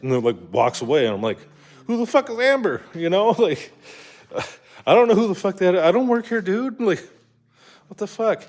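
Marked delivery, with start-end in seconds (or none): 1.9-8.4 much higher, acted exasperated rant; incredulous outrage. Customer left standing by a Walmart worker, incredulous outrage. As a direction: replay being baffled and annoyed, pitch way up.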